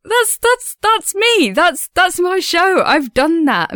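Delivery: high, breathless wonder at seeing her own show; starry-eyed, stunned pride; amazed disbelief. Retold or imitated. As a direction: say it like you can't believe it's yours. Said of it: "stare at the badge thinking".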